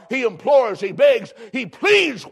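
building shout. Real, not acted. Preacher driving home a man's pleading, shouting.

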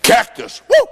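hammed-up thrill; mock excitement. Preacher pretending a cactus thrills him. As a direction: fake a burst of glee.

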